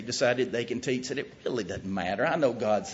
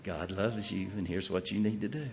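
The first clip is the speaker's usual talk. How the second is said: smiling preacher; 5 semitones lower, 9 dB quieter than usual. Retold or imitated. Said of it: "and he smiles and he says".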